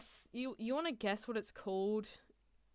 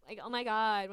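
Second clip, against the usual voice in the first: put-on light Valley Girl lilt; a hint of Valley Girl gushing; 4 dB louder than usual. Shown as a demonstration. Streamer showing her Valley Girl voice, lightly put on. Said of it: "what is it, Valley Girl".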